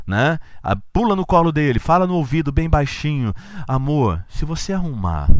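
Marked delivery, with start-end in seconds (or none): 3.7-5.3 imitating his wife, slightly altered voice; playful woman's voice from a man; man doing a woman's voice. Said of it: "olha eu imitando mulher".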